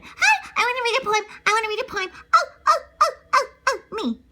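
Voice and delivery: put-on high, eager little girl begging for a turn; a child desperate to be picked.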